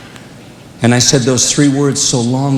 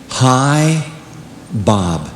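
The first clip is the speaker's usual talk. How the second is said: low, strained "Bob" in a hurting father's voice; a father in pain, barely getting two syllables out; 3 semitones lower than usual. Retold or imitated. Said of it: "I heard the pain in my dad's voice".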